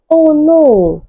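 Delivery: high-pitched mock squeal; a playful imitated squeal. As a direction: squeak it out like a panicked caller. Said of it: "Debbie squealed".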